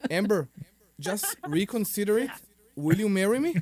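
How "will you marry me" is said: laughing through a joking proposal. Pretend. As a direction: ask it again while laughing. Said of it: "I need to do it again".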